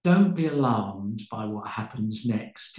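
slow, kindly grandfather assuring the crowd; lightly voiced, amused old preacher calming five thousand people; chuckling grandfatherly reassurance. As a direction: soothe them like a twinkly grandfather before surprising them. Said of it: "with a big chuckle, a grandfatherly smile".

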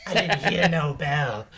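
slow, loud battered defiance; defiant fighter. Acted. Priest standing back up, slow loud defiance. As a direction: say it slow and loud, refusing defeat. GM voices priest rising at one HP.

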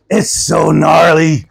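slow, drawn-out surfer dude; hippie surfer pastor. Retold or imitated. Surfer pastor marvels to the preacher, slow hippie drawl. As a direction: stretch it like an awestruck surfer. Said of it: "the hippie surfer".

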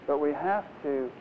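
ordinary talk, nothing marked

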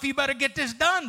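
a hint of a rough, bossy wife; lightly voiced stern nagging. Husband imitating wife's rough demanding voice, mildly rough. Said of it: "the rough".

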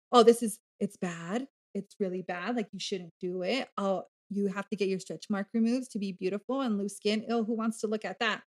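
murmured imitation of online critics; mock disapproval. Podcaster mimicking online critics of loose skin, quietly disapproving.

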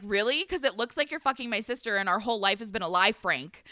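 sarcastic, fast accusing wife; angry wife. Retold or imitated. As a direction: spit out the accusation quickly. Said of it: "And Charlotte's like".

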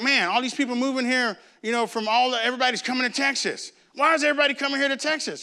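quick, irritated grumbling about newcomers; exasperated complaint. Shown as a demonstration. Preacher mocks a neighbour griping about newcomers, exasperated. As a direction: rattle it off like a fed-up neighbour. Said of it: "And be like".

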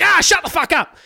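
high, loud mocking outburst; mock snap. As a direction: bark it like a fed-up politician. Morrison snapping at journalist.

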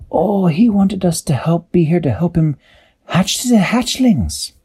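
high, amused character voice; Peso's voice. A narrator's reading. Peso praising the beast, high amused voice. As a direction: lift the voice, joking. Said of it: "Peso said".

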